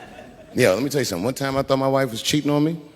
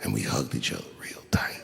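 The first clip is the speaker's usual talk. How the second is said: whispered, much softer; hushed; 12 dB quieter than usual. Acted. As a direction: breathe it out like a secret. Tender moment, hushed.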